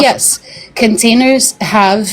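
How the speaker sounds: slow, winded words after running around; out of breath. Real, not acted. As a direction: speak out of breath, gasping between words. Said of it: "sorry, I'm out of breath because I was running around".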